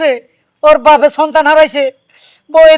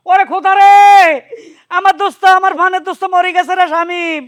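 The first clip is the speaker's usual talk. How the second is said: keen over the dead friend; wailing lament; 4 semitones higher than usual. Acted. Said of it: "কেমনে করে চিল্লাইতাছে?".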